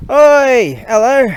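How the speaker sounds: loud, high call across the street. Real, not acted. Calling out to a neighbour cycling past, loud and high. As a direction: hail someone from a distance.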